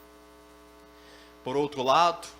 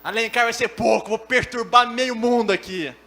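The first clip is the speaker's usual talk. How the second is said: loud, hammed-up raging threat; Super Saiyajin hothead; 4 semitones higher, 12 dB louder than usual. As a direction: power up into a blustering shout. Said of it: "a versão Super Saiyajin dele". (valentão exaltado, aos berros)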